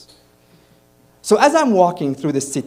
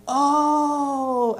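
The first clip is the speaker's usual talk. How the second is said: surprised oh; 11 semitones higher than usual. Retold or imitated. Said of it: "And I'm like".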